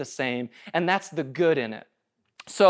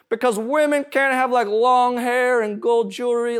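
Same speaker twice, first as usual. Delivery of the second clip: southern voice; 5 semitones higher, 5 dB louder than usual. Retold or imitated. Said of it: "I always go to that voice".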